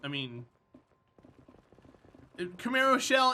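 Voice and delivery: ordinary talk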